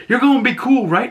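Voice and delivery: high-pitched imitation of a woman; put-on high voice, seeking reassurance; mock anxious check-in. Acting wary woman questioning her partner.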